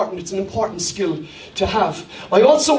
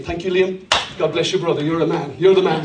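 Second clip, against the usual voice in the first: hearty manly greeting; 6 semitones lower than usual. Acted. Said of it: "to create connection socially, you do the same".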